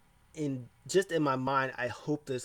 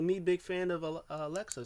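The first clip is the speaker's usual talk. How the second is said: higher-pitched mock gushing; imitated fawning fan; 5 semitones higher than usual. Asuka telling Alexa she's a fan, mock gushing. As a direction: lightly imitate an eager fan.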